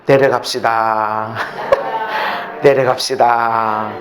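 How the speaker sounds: slow, low invitation; gentle urging. Shown as a demonstration. Pastor shows congregation what to say, slow and low. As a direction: coax a neighbor slowly. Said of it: "이렇게 말해주세요".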